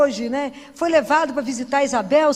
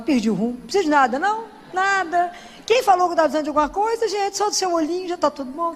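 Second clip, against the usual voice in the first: giddy joy; 5 semitones higher, faster than usual. Retold or imitated. Her playful answer to Jesus.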